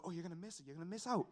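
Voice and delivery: softly voiced nagging voice in his head; quiet warning. Voice warning the dozing boy he'll miss fishing, quiet warning. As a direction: imitate someone's hushed warning. Voicing someone warning him as he dozes.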